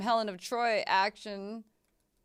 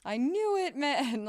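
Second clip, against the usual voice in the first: much higher, louder cry of I-told-you-so; triumphant yell; 9 semitones higher, 5 dB louder than usual. Real, not acted. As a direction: shout it like you called it. Streamer's suspicion confirmed in game.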